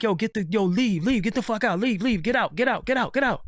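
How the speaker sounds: frantic get out. Retold or imitated.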